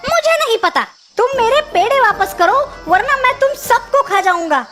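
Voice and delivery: demanding, acted outrage; angry threat. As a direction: threaten them with mock menace. Threatens the ghosts to return sweets.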